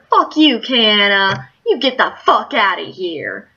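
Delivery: angry retort. Retold or imitated. Retelling yelling at Kiana to get out, mildly hammed-up anger. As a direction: snap at her and throw her out. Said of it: "And I was angry".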